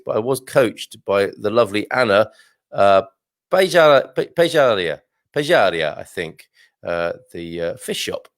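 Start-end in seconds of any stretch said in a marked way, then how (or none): 3.5-6.0 Pejaria tried haltingly, restarting after "Pejar-"; careful pronunciation attempt. Real, not acted. Host attempting a word Anna coached them on, careful pronunciation attempt. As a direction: feel out "Pejaria" syllable by syllable, then repeat it. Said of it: "had a lot of trouble last night pronouncing this".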